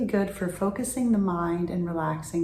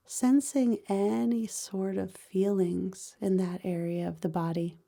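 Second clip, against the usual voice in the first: calm, even meditation voice with long pauses; guided body scan meditation. Real, not acted. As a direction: guide them gently through the body, pausing between phrases.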